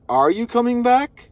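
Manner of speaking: pointed retold question; imitating serious questioning. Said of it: "he sounded so serious when he said it".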